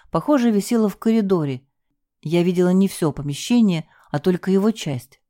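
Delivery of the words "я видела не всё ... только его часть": ordinary delivery, nothing marked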